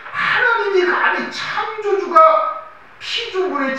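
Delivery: high, slow, ringing cry; a preacher crying out at God's greatness, loud and slow; fervent exclamation. Real, not acted. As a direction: call it out in awe, drawn out.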